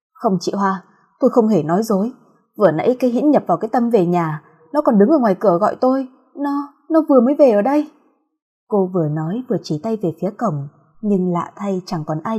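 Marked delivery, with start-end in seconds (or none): 0.1-7.9 desperate insisting. Acted. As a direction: insist desperately she isn't lying. Khẳng định trong sợ hãi.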